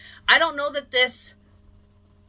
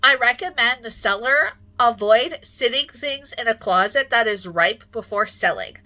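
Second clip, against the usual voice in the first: high, loud, slow melodrama; hammy stage actor; 4 semitones higher, 4 dB louder than usual. Pretend. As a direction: ham up the disgust for the stage. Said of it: "I'll be accepting Academy Award nominations".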